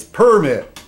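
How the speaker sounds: "permit" stressed on the first syllable, PER-mit, like a redneck. Shown as a demonstration. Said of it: "If you're kinda sounding like redneck".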